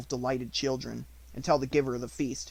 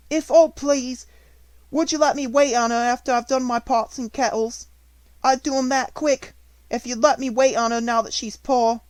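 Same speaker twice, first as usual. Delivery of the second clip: much higher, louder pleading; tearful begging; 11 semitones higher, 9 dB louder than usual. A narrator's reading. Maid begging the headmistress to let her serve, high and tearful. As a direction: beg for the chance to help.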